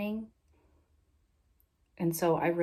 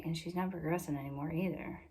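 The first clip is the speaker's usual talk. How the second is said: under her breath; 7 dB quieter than usual. Retold or imitated. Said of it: "It was, like, under her breath".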